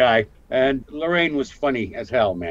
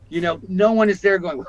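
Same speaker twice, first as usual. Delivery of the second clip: ordinary talk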